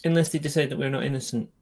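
muffled behind a gas mask; through a gas mask. Real, not acted. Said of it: "Sorry, I'm talking through a gas mask".

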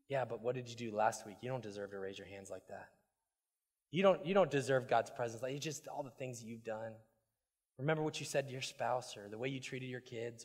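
low, hushed, nagging inner accuser; accusing inner voice. Acted. Pastor voices the condemning voice, hushed and nagging. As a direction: murmur it like a guilty conscience. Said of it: "then there's that little voice".

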